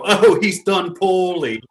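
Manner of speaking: high, slow plummy commentator voice; deadpan British football commentary; mock British announcer. Joking to friends about a missed free kick, mock British announcer. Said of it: "as a joke, I go".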